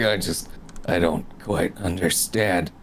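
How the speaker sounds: slow, halting puzzlement; bewildered. Acted. Damien answers the duck he can't understand, slowly bewildered. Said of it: "now more confused".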